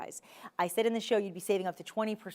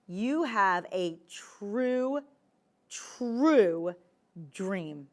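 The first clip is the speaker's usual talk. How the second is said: slow dreamy; much slower than usual. Real, not acted.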